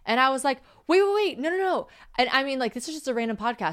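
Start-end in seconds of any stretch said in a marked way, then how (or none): 0.9-1.9 high, loud rushed protest; raised mock objection; alarmed protest. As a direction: stop them mid-sentence in disbelief. Retold reaction to podcast claim.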